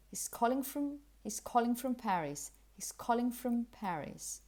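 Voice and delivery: "from" as quick "frum", unstressed; connected weak form. Shown as a demonstration. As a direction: link "calling from Paris" in one run. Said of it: "if you're reading all of this connected".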